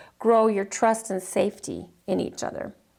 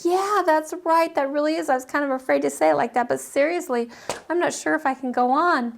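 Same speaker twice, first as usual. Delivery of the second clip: higher, lightly voiced client agreeing; a hint of a grieving client, pitched up; client opening up; 4 semitones higher than usual. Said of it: "They're like".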